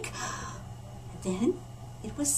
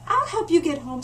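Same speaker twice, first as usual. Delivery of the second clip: higher, louder, eager little panda; a bright, curious cub asking; friendly panda voice; 5 semitones higher, 4 dB louder than usual. Acted. Panda cub greeting the newcomer, eager and high.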